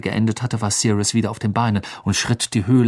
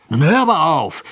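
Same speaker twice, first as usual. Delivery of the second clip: higher, incredulous objection; astonished; 6 semitones higher, 4 dB louder than usual. A narrator's reading. Ron answers Hermine's suspicion of Bagman, astonished. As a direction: object in raised-pitch disbelief. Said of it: "entgegnete Ron verwundert".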